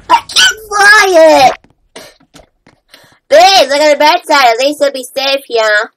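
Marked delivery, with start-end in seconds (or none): 0.1-1.6 frustrated yell. Pretend. Acted panic over flying house.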